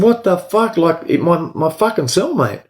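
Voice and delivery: jumps way up in pitch, then fades; incredulous cry, trailing off; retold disbelieving outburst. Inmate protesting to officer ordering him to let go, high then fading.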